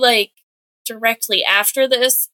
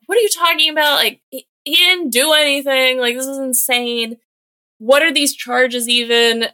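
higher-pitched imitation of an outraged wife; mock indignant protest; 4 semitones higher than usual. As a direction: protest in mild mock disbelief. Retold wife protesting the arrest.

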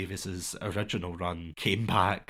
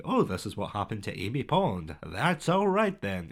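put-on American accent. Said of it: "saying that in an American accent".

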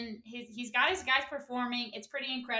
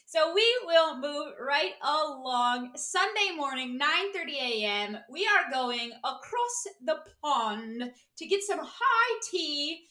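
attempted English accent. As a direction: put on a shaky-at-best English accent, taking your time. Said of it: "what an English accent is".

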